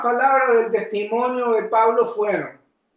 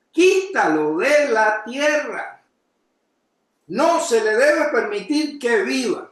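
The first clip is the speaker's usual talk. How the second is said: exclamation. Shown as a demonstration. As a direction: demand it with an exclamation mark. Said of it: "símbolo de exclamación".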